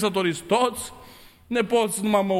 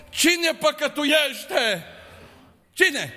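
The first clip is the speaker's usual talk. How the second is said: slow rhetorical; 5 semitones higher, much slower than usual. Real, not acted. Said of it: "rhetorical question, drawn out".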